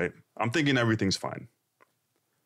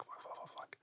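barely audible, voiceless cursing; panicked whisper; 25 dB quieter than usual. Retold or imitated. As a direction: swear under your breath in retold panic. Retelling his panic in the car.

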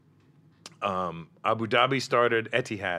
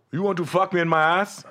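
hooker's come-on; 8 semitones higher, 6 dB louder than usual. Retold or imitated. Prostitute voiced in retold story.

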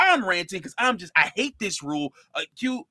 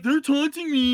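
a lightly put-on whiny complainer, slightly higher; mocking whiny voice; 5 semitones higher than usual. Host mimics a team complaining to refs in a mock whiny voice. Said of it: "Why you gotta use that voice".

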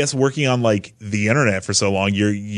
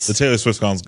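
normal talking voice

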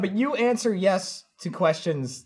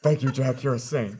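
lightly voiced old man; 6 semitones lower, 4 dB quieter than usual. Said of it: "he handed me my cane".

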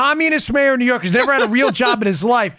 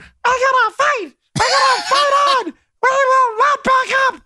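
high-pitched de Blasio. Retold or imitated. Host mimicking the mayor's distorted voice, high and squeaky. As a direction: play it like a digitally sped-up tough guy. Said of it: "he's in this high-pitched voice".

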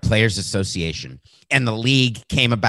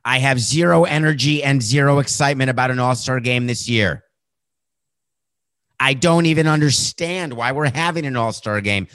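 quoting LeBron; 5 semitones higher than usual. Retold or imitated. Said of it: "LeBron James went scorched earth".

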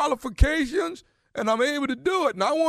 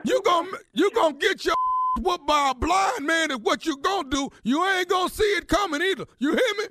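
staged threat; 4 semitones higher than usual. Acted. Prank caller threatens in staged quarrel.

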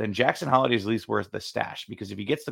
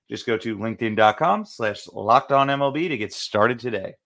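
ad read. Acted. Reads a sponsor ad.

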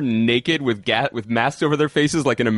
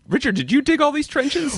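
voicing Joan; 12 semitones higher than usual. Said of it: "she's like".

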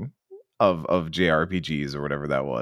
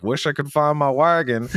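higher, wistful game-character voice; whiny NPC; 8 semitones higher than usual. Retold or imitated. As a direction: whine it like a lost villager. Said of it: "He's like".

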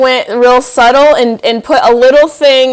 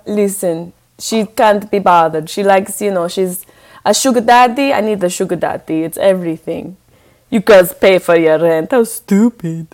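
a lightly voiced haughty Nadia; a hint of an aloof Russian-accented woman; Nadia character; 3 semitones lower than usual. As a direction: dismiss them like a bored gold-digger. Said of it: "Your new character".

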